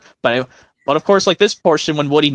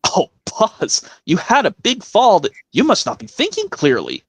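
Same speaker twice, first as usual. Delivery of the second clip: Woody voice; 5 semitones higher than usual. Acted.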